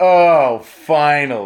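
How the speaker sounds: very loud, smug, self-satisfied gloating. Voicing a character with crossed arms who is finally pleased: smug voice. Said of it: "smug, like, finally, like".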